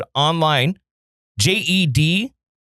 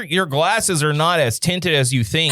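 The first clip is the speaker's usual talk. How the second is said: laughing. Real, not acted. Laughing while teasing.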